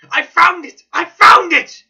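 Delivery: loud, high cry of triumph; joyful shout. Acted. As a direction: shout it out in delight at the discovery. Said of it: "he shouted to my companion".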